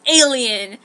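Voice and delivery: alarmed shout. Acted. Spotting the alien.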